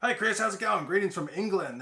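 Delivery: playful Aussie voice; mock Aussie accent. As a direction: read the viewer's comment in a hammed-up Australian accent. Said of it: "That's an Aussie accent".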